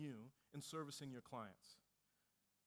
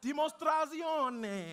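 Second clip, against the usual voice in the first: "Dimostrazione" shouted slowly, much higher and louder; shouted Italian; 10 semitones higher, 13 dB louder, much slower than usual. Shown as a demonstration. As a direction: belt out "Dimostrazione" with the crowd. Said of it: "So I'm gonna teach you a little Italian".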